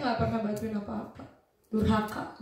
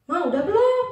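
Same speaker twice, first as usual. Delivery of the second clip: loud, high call to mom; imitated yell; 7 semitones higher, 9 dB louder than usual. Daughter yelling from bedroom to mother, high impatient shout. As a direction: shout impatiently toward the next room. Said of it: "Saya teriak dari kamar".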